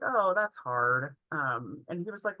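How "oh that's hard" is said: slow, gentle sympathy; sympathetic. Retold or imitated. Crew guy comforts the sad little boy, slow and gentle. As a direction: draw it out kindly, feeling for him.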